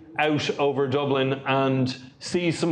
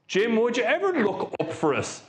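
higher-pitched, mock-polite phone request; acted phone request; 5 semitones higher than usual. Caller alerting field engineer to a leak, acted phone request. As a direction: imitate a pointed call to the engineer. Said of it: "a very prompt phone call to the engineer".

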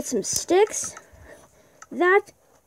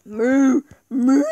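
mooing; 6 dB louder than usual. Pretend. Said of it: "I'm a cow".

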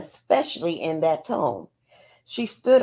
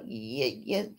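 stuttering; 3 semitones lower, 5 dB quieter than usual. Retold or imitated. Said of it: "Bobby would stutter".

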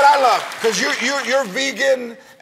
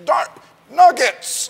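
fake clean cursing; 6 semitones higher, 4 dB louder, much slower than usual. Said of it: "you have to go".

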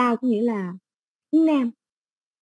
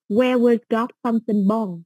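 slow model reading; slower than usual. Shown as a demonstration. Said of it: "teacher models the question".

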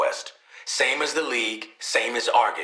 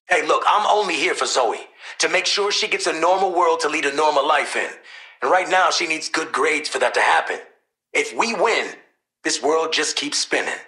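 insistent; 3 semitones higher, 4 dB louder than usual. Acted. Parent defending why he's here for Zoe, insistent. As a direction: press the point firmly.

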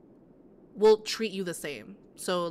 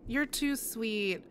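touched; much slower than usual. Real, not acted. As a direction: let it land slowly, moved. Repeats slower, touched.

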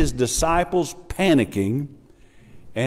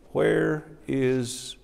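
gentle question; 6 dB quieter, much slower than usual. Acted. Jesus gently questioning disciples.

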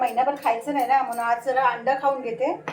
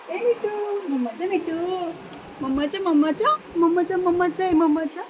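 cooing pet talk; 3 semitones higher than usual. Real, not acted. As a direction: coo lovingly at the pet bird. Cooing baby talk to parrot.

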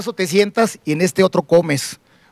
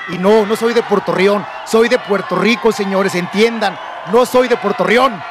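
indignant, slow, raised-voice setting straight of "Puerto Rión"; emphatic correction; 2 semitones higher, slower than usual. Acted. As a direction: drive home each word of "Puerto Rico", drawn out. Corrects people who misheard his origin.

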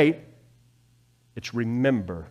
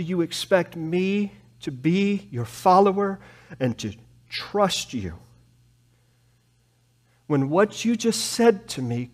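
mild tearful plea; 4 semitones higher, 4 dB quieter than usual. Acted. Habakkuk to God like a confused child, softly tearful. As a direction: speak like a hurt child, quietly. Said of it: "he's crying".

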